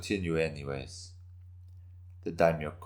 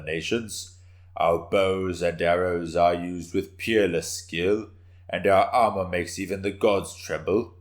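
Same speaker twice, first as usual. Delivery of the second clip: a slightly louder, solemn address to the hall; solemn conviction; 4 dB louder than usual. Acted. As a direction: speak with grave power to rally the men. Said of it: "this time speaking more solemnly, but still with power and conviction".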